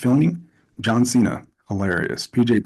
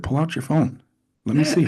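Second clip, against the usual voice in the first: stern Cena; 7 semitones higher than usual. Retold or imitated. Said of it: "and he said".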